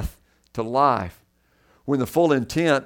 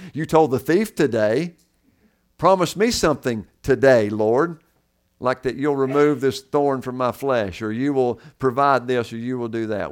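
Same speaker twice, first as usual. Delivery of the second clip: mock demanding prayer; 5 dB louder than usual. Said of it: "we can't prescribe this text to our lives today and say".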